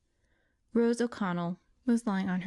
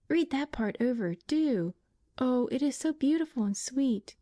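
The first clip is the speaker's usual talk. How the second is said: put-on higher, dreamy young girl savouring the words; delighted invalid sister; 5 semitones higher than usual. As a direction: linger lovingly over each phrase. Rose delights in the poem.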